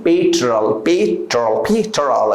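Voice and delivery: "petrol" repeated low as PET-rol; correct pronunciation. Shown as a demonstration. Teacher corrects the students' "petrol" with a low PET-rol. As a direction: drill "petrol" three times, PET-rol. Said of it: "Petrol nahi".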